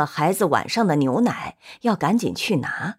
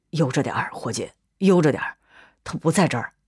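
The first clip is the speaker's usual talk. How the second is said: gentle calming; 2 semitones lower, faster than usual. A narrator's reading. Calming the searching father.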